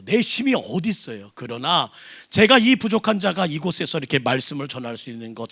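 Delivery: normal talking voice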